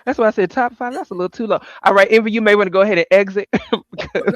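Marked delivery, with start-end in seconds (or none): 1.8-4.3 teasing through laughter; giggling playful dismissal; laughing tease. Real, not acted. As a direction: shoo him off while cracking up.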